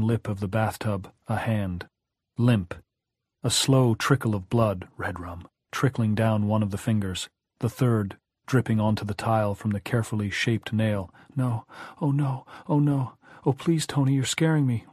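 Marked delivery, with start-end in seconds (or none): 5.0-5.5 low ominous murmur. A narrator's reading. Ominous word in narration. 11.4-14.9 put-on high, frightened child; begging in rising fear; terrified pleading. A narrator's reading.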